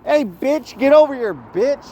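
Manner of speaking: very high-pitched mock Chinese-accented threat; attempted Chinese accent. Pretend mafia boss ordering UCLA around, high mock Chinese accent. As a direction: taunt in a badly faked high Chinese accent. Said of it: "I don't think I could do a Chinese accent".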